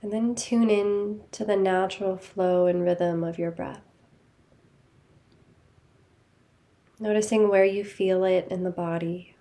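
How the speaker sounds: calm, even guiding voice with long pauses; guided meditation. Real, not acted. Teacher leading listeners to notice body and breath, guided meditation. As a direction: guide them gently inward, leaving space after each phrase.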